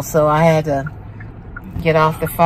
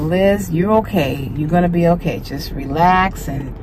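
reassuring self-talk. Retold or imitated. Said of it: "I said to myself".

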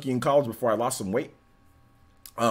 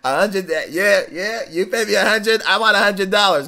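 flat droning buddy voice; monotone voice; 6 semitones higher, 4 dB louder than usual. Retold or imitated. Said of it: "He had this monotone voice".

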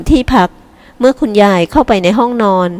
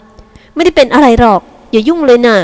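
mildly snappish leave me alone; irritated brush-off; 4 semitones higher, slower than usual. Acted. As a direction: push her sister away with words. Younger sister pushes hand away.

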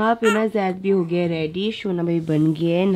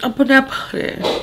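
tearful protest; 4 semitones higher, 4 dB louder than usual. Real, not acted. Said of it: "पागल है क्या?".

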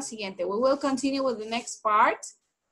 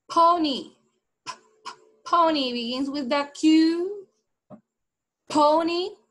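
loud teaching call; 4 semitones higher, 3 dB louder than usual. Shown as a demonstration. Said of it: "Look at my lips".

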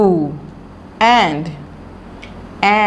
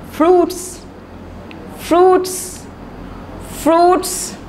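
much higher, sing-song fruits; squeaky high drill; 10 semitones higher, much slower than usual. Shown as a demonstration. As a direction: lift fruits way up to catch the kids' ear. Teacher drills the word fruits. (बहुत ऊँची आवाज़ में fruits)

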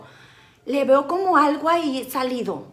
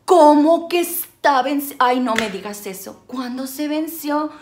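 dramatic despair; 4 dB louder than usual. Retold or imitated. Driver pleading with the officer, hammed-up despair. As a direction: ham up the disbelief, telenovela style. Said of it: "yo de dramática".

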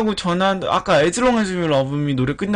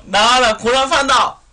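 slow, loud, higher trainer call; calling out Psyduck; 6 semitones higher, 6 dB louder than usual. Shown as a demonstration. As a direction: summon Psyduck loudly. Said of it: "다시 한번".

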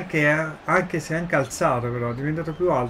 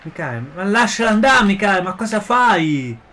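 louder, exasperated calls at a player; exasperated scolding; 4 semitones higher, 4 dB louder than usual. Real, not acted. (rimprovero esasperato)

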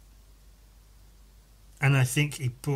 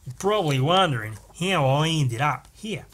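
hammed-up, wobbly Australian accent; movie voice-over sliding into a bad Australian accent. President narrating how he ended up here, rough Australian accent. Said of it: "I almost went into an Australian accent".

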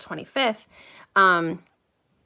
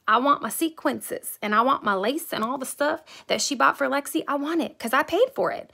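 indignant retort; 4 semitones higher than usual. Retold or imitated. Retelling her heated reply to seamstress.

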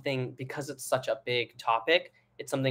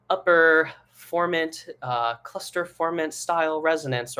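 mock jargon teacher; 4 semitones higher than usual. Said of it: "being like".

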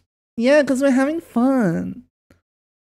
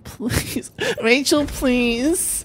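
slow, drawn-out laughing plea; pleading; 6 dB quieter, much slower than usual. Real, not acted. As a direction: beg her, stretching each word. Begging teammate for the skin.

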